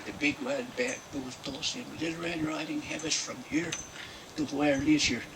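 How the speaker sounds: put-on comic storyteller with a Mexican accent. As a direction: tell it in a thick Mexican-American accent. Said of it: "he had a, quite a Mexican accent".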